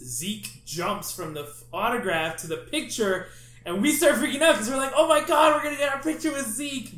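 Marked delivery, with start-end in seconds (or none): 5.0-7.0 retold excitement. Freaking out over Zeke photo.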